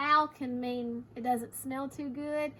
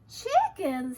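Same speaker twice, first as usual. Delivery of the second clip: raised, loud one-word reaction; surprised echo; 5 semitones higher, 8 dB louder than usual. Acted. Hector reacts to Harriet's discovery, surprised. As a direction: echo it in astonishment.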